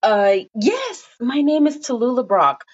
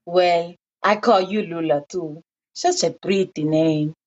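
put-on older woman voice; 5 semitones lower than usual. Old neighbour voiced in story.

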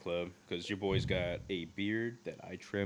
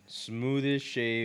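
ad pitch voice; 3 semitones higher, much slower than usual. Pretend. Mock product ad bit.

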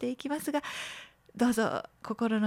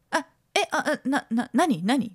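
stammering, startled and a bit louder; flustered patient; 3 semitones higher, 3 dB louder than usual. Retold or imitated. Patient startled by a nurse's すみません, stammering. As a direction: stumble over the words like you've been caught off guard. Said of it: "みたいな対応".

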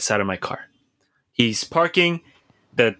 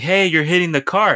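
retold shout; 6 semitones higher than usual. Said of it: "I start shouting at him".

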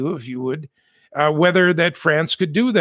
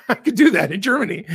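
laughing; 4 semitones higher, faster than usual. Real, not acted. Laughing at his own mix-up.

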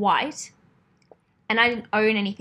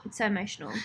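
whispered; 8 dB quieter, much faster than usual. Real, not acted. Soft aside about a sad episode.

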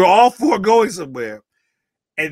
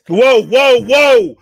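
loud, higher-pitched protest; loud objection; 5 semitones higher, 8 dB louder, much slower than usual. Real, not acted. Guest stopping the host from misquoting him, in loud protest. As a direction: cut them off loudly and high. Cuts off being blamed.

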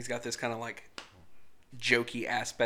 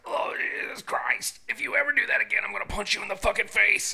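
loud, high-pitched threat; retold temper outburst; 8 semitones higher, 5 dB louder, faster than usual. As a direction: act out losing your temper at a child. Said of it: "I lost my temper".

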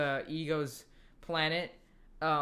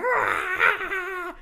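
mock scream; 11 semitones higher than usual. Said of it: "they're like".

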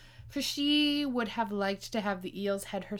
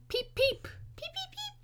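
much higher tiny peeps, fading soft; baby bird peeps; 6 dB quieter than usual. Acted. Hatchling duckling crying out its first very high peeps. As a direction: peep like a newborn chick.

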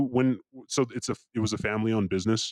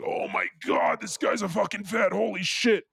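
much higher, reenacted astonishment; high-pitched retold "oh my God" moment; mock disbelief; 10 semitones higher than usual. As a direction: retell your alarmed realization in a high voice. Reacting to suspect new hire.

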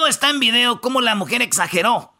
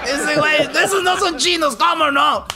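exclaiming; 4 semitones higher than usual. Real, not acted. Mock outrage at cousin.

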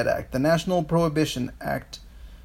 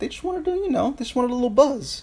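excited; 7 semitones higher, faster than usual. Real, not acted. Excited rapid explanation.

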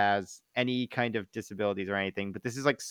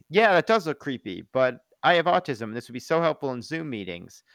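mock online reply; 4 semitones higher, 5 dB louder than usual. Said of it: "responded and was like".

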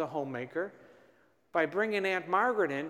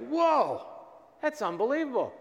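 amazed; 7 semitones higher than usual. Retold or imitated. Preacher retelling his reaction to the director's question, amazed. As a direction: relive being bowled over by a revelation.

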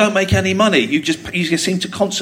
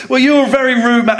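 higher-pitched mock indignant comeback; retold retort; 5 semitones higher than usual. Woman arguing back at the father, mock indignant. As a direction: imitate an affronted stranger answering back. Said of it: "we had this massive argument".

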